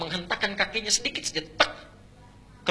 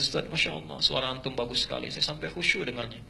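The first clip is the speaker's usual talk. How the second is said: congregant praising; 2 semitones lower, 7 dB quieter than usual. Retold or imitated. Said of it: "kata makmumnya".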